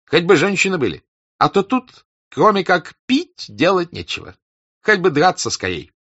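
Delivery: loud, high grumbling hussar; boisterous hussar. A narrator's reading. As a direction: complain like a bored soldier. Denisov complains loudly.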